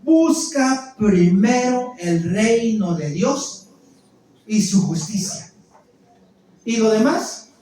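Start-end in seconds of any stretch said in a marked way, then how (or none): 0.0-5.5 slow, loud, every word stressed; emphatic recitation. Shown as a demonstration. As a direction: drive the verse home slowly. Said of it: "Te la recalco con esta palabra". (lento y fuerte, recalcando cada palabra)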